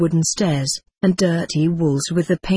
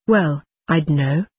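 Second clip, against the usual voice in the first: doubtful; 2 semitones lower, slower than usual. A narrator's reading. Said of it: "he said doubtfully".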